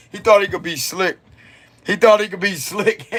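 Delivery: chuckling while speaking; laughing. Real, not acted. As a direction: laugh through the words. Laughs on these lines.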